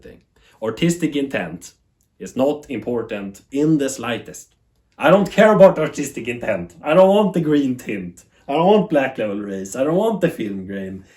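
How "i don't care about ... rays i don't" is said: emphatic. Real, not acted. Venting against TV purists.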